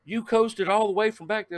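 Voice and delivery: high amazed question. Retold or imitated. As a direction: sound stunned by the news. Stranger amazed.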